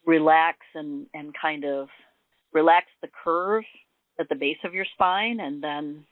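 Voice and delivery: unhurried meditation guide with long pauses; gently walk them through it, leaving room to breathe; guided meditation. Acted.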